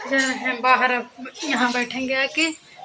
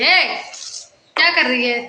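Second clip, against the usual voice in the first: calling out; 7 dB louder than usual. Real, not acted. Scolding daughter throwing sandals.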